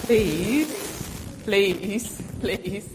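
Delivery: hammed-up magic incantation, slow; kids party magician. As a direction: chant it like a stage magician. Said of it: "say the magic word".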